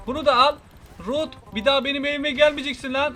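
loud gloating taunt while firing; triumphant loud jeer at the enemy; taunting shout. Acted. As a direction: yell it in his face. Firing rockets at Rod, taunting.

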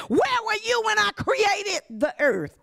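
preaching climax shout, voice breaking; God's shouted demand. Acted. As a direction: cry it out like thunder from heaven. Preacher voicing God, climax.

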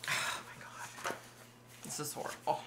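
real hushed, breath-only dismay, very soft; horrified hush. Real, not acted. Reader reacting to a young man's funeral, horrified hush. Distressed reaction after reading aloud.

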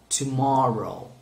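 "Tomorrow" said slowly and clearly; slow teacher's model of "Tomorrow"; model pronunciation. Shown as a demonstration. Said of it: "One more time".

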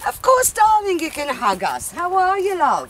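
broad Australian aunt greeting warmly; Australian accent. Acted. Aunt greeting Maltese cousins in a broad Australian accent. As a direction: sing it out Aussie style, darling. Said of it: "I love your exotic accent".

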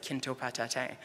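quiet, French-accented attempt at Cree; "Kinto patatin" said softly with French-accented sounds. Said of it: "say it with a French accent".

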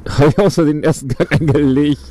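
laughing. Real, not acted. Accidentally shifted gear, laughs.

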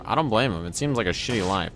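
nasal from a broken nose. Real, not acted. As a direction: talk through a blocked, nasal nose. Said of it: "my voice is nasally".

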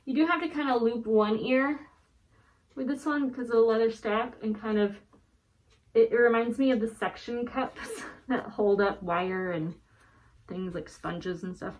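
muffled behind a cloth mask; through a face mask. Real, not acted. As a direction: talk through a heavy twill mask. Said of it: "I'll just put it on really quick".

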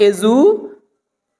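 "এজুকেশন" split as e-ju, pause, khei-shon; slow showy "এজুকেশন", stretched third syllable; smarter pronunciation. Shown as a demonstration. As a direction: say "এজুকেশন" with a long breath-released khei. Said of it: "যদি আরো smart হতে চান".

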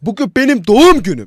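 put-on high, loud whiny kid yelling at mom; shouting child. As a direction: yell it at mom like a hurt kid. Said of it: "Pardon fazla bağırdık". (annesine bağıran çocuk, yüksek ve sert)

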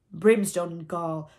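loud, slow mimicked pirate oath; retorting. A narrator's reading. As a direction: throw the oath back in a captain's voice. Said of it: "the voice retorted".

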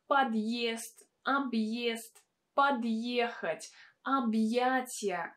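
slow, each word with a y glide after the hard sign. Shown as a demonstration. Teacher listing hard sign words slowly with the y glide. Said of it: "words with a hard sign".

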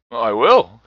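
loud, emphatic acceptance; cried out. A narrator's reading. Old gentleman agrees to visit Scrooge, crying out. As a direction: burst out with a hearty promise. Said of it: "cried the old gentleman".

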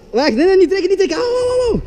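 high, laughing protest; panicked laughing. Real, not acted. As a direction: beg them to stop, laughing. Being pulled, in pain laughing.

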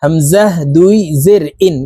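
measured drill, "ইন" starting on a hamza, no y glide; alif read as hamza. Shown as a demonstration. Teacher shows viewers alif named "হামজাহ", ending on glottal "ইন". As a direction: spell it out "হামজাহ", then "ইন" with a glottal onset. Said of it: "আলিফকে হামজা বলে উচ্চারণ করব".

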